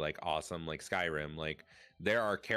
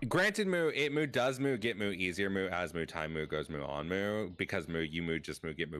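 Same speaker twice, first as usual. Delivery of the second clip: moo redeem. Pretend. Streamer thanking chat, adding moo after every word. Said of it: "This is the Moo Redeem".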